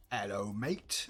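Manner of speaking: mock Australian greeting; Australian accent. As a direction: slip into a rough Australian accent. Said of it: "No, that's Australian".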